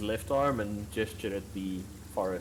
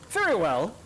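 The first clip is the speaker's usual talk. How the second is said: fey lord voice; 8 semitones higher, 7 dB louder than usual. Acted. Fey lord grants the request.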